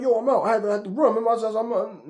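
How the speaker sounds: high, loud defensive excuse; mock Ali excuse. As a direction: play Ali scrambling to justify running. Ali's excuse acted out.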